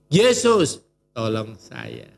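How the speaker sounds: a cry for help, fading out; pleading prayer. Pretend. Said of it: "jangan lupa panggil". (seruan memohon, lalu melemah)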